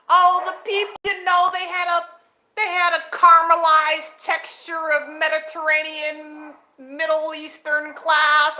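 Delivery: lightly voiced pompous expert, slowing at the end; mocking pompous scholar. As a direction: send up the channel's fancy wording. Mocking the channel's claims.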